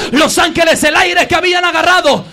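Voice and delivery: prédica con fuerza; fervent preaching voice. Real, not acted. Preacher in full voice. (predicación ferviente)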